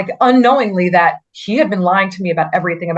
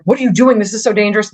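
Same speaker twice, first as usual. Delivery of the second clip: raised, sharp scolding of a speeding driver; mild retold yell; 3 semitones higher, faster than usual. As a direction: play the cop half-yelling at the driver. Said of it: "yelling at him".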